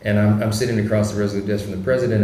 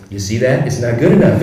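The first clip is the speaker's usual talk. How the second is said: Trump impression; 2 semitones higher, 8 dB louder than usual. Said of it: "he goes".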